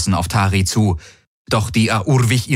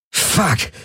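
gasped; 9 semitones higher than usual. A narrator's reading. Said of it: "keuchte Galen".

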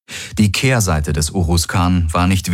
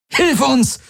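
barked order. Acted. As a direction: bark it at gunpoint. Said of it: "bellte Kirai".

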